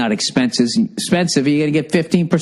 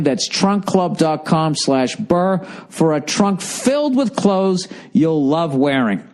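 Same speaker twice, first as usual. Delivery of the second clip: ordinary delivery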